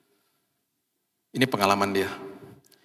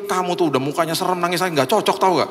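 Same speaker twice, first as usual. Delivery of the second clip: higher-pitched mock telling-off; animated, exasperated ribbing; teasing scolding; 5 semitones higher than usual. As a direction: chide a tough-looking friend for crying. Teasing scolding of crying tough friend.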